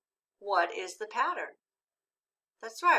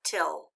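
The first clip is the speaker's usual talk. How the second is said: till said alone, low and unstressed; unaccented syllable; 4 semitones lower than usual. Shown as a demonstration. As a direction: read till as a bare syllable, no accent. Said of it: "without the accent".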